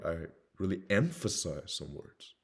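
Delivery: slow, drawn-out stress on "emphasize"; "emphasize" stretched out for weight; emphatic stress. Shown as a demonstration. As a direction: lean hard on "emphasize", stretching it. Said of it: "Just like I did right there".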